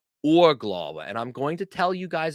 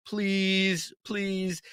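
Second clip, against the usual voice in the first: put-on light pleading child voice; soft childlike please, please; begging girl; 4 semitones higher, 4 dB quieter than usual. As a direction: plead like a little girl asking for a cat. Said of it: "the girl is saying".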